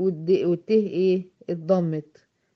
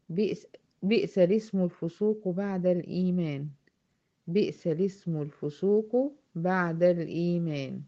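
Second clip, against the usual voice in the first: Quran recitation. Shown as a demonstration. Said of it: "الآية اللي عندي".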